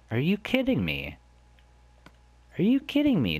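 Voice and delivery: second take climbs into a squeal; empty chest, fed-up shout; exasperated disbelief. Real, not acted.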